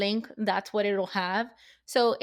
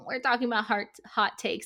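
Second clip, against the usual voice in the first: sarcastic. Acted. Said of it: "That was total sarcasm".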